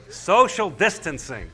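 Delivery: very slow, drawn-out words; stretched-out, pointed quote; deliberate repetition. Retold or imitated. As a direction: repeat the term slowly so it sinks in. Repeating the new term with weight.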